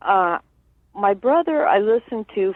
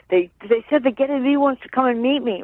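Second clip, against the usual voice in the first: higher-pitched, mildly excited quote; excited retelling; 6 semitones higher than usual. Retold or imitated. Brother retells Cliff's call home about a famous musician, mildly excited. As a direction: pass on his excitement, imitating lightly. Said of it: "So he was really excited".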